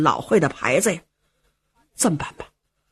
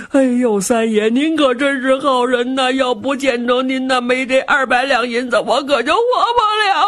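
fake crying; 3 semitones higher than usual. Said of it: "程咬金还哭".

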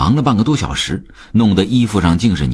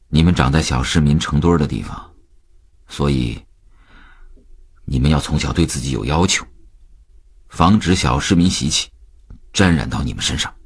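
fatherly lecture; 4 semitones lower than usual. Acted. Father lecturing his two sons.

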